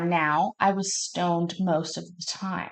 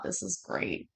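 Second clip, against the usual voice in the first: hushed, breathless giggle-whisper; whispered aside; 11 dB quieter, slower than usual. Retold or imitated. Hiding at her desk, whispering while laughing. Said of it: "laughing in the background".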